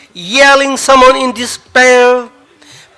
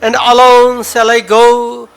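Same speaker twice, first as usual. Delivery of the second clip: measured dramatic poetry reading; poem recital. Acted. Poet reading his own farewell poem to the audience, solemn.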